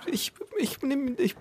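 whispered aside. Real, not acted. Unvoiced aside while others talk.

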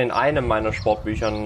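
EINEM picked out with emphasis; stress on EINEM. Real, not acted. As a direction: lean pointedly on the word EINEM. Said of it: "ich betone".

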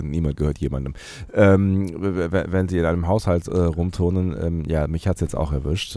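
stuffy nose from a cold; talking with a blocked nose. Real, not acted. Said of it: "Nase ist zu".

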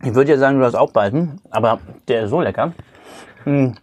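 talking with mouth full; chewing a bite of burger while talking. Real, not acted. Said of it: "Entschuldigung, dass ich jetzt mit vollem Mund rede".

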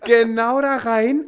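slow, high, loud dramatic telling; dramatic crash. Retold or imitated. Telling a friend how the scooter hit the rock, slow and dramatic. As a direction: drag out the crash for effect.

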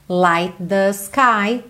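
slow "Light the sky", T run into "the"; joined consonants. Shown as a demonstration. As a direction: merge the end of "Light" with "the". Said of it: "juntando aí o T final do light com o T do the". ("Light the" com os sons juntados)

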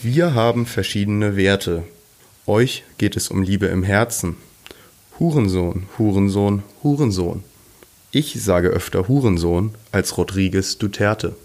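stiff, even robot voice reading lines. Pretend. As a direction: recite it like a creaky robot. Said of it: "Soll ich nochmal?".

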